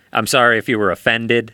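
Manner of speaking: laughing mock apology; fake apology. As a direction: chuckle through a hollow sorry. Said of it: "Non-apology apology".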